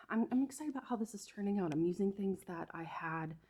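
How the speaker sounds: winded from walking; a little breathless after exertion; out of breath. Real, not acted. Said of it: "Sorry, I'm out of breath".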